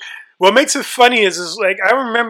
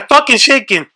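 shaky, near-crying voice; adrenaline shakes; 6 semitones higher than usual. Real, not acted. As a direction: voice trembling from adrenaline. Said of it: "my hands are shaking".

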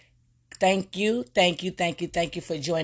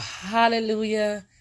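slow, high, drawn-out hallelujah; joyful cry; 6 semitones higher, slower than usual. Real, not acted. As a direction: cry it out to the Lord. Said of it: "my soul cries out".

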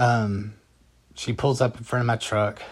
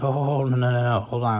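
quick run of raised objections; interrupting protest; 3 semitones higher, 4 dB louder than usual. Retold or imitated. Husband breaks into wife's story, interrupting protest. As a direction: cut in, a bit higher and louder.

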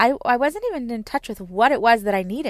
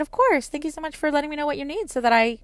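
put-on higher-pitched thanks, as to a small child; acted-out encouraging mom voice, pitched up; appreciative parent; 7 semitones higher, faster than usual. Mom thanking her young daughter for asking, high and encouraging. Mother replying kindly to child's request.

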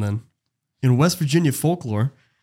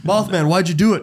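mock pleading; 7 semitones higher, 4 dB louder than usual.

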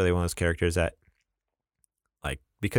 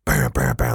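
imitated Hulk roar, higher and louder; mock rage roar; 6 semitones higher, 5 dB louder than usual. Fan acting out the original Hulk smashing cars, mock rage. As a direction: growl out a playful burst of Hulk rage. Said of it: "like, so much rage".

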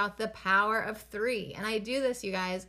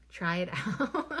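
laughing. Real, not acted. Inviting viewers again, now laughing mid-phrase. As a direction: laugh breaking into the word.

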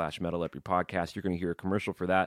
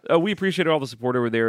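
laughing; 6 semitones higher, 7 dB louder, faster than usual. Real, not acted. Laughing after joke.

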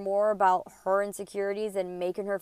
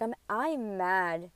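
slow retold mad; 4 dB quieter, much slower than usual. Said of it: "and I'm mad".

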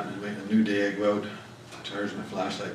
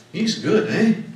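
exclaimed; 9 semitones higher, 6 dB louder, slower than usual. Real, not acted. Preacher's exclaimed aside.

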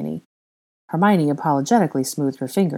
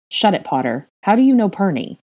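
curt, sharp demand rising loud at the end; snapping; 5 semitones higher, 5 dB louder than usual. A narrator's reading. Draco cutting Potter off to question his son, sharp snap. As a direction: snap it at your rival. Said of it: "he snapped".

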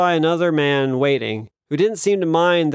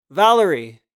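put-on mid-Atlantic accent; 3 semitones higher, 4 dB louder than usual. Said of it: "mid-Atlantic accent".

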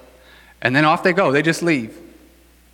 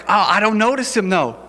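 higher-pitched mock protest; woman protesting; 5 semitones higher than usual. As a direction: object lightly in a raised pitch. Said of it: "She's like".

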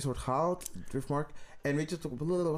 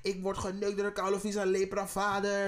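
higher, heated rant in character; mock outraged rant; 6 semitones higher than usual. Friend acting out Alicent's jealous rant, higher and heated. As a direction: vent like a scorned wife, pitched up.

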